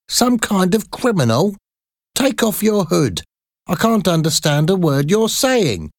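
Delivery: put-on old flower lady demanding he show his face; gruff old flower seller. A narrator's reading. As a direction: sneer at him like a wary street vendor. Flower lady scolds hooded stranger.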